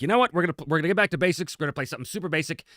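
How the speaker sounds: high, fast, eager announcing; excited. Retold or imitated. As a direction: pitch it up and rush with excitement. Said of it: "And I'm like".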